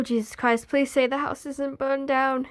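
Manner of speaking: normal talking voice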